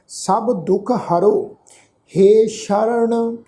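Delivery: very slow, stretched syllables; scripture recitation. Shown as a demonstration. Teacher leads on through the verse, slow recitation. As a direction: draw out each word of the verse. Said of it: "ਪਾਠ ਉਚਾਰਨ ਕਰਾਂਗੇ".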